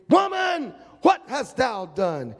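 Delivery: God roaring, the first word very high; booming angry summons; furious shout. Acted. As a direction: demand an answer in anger.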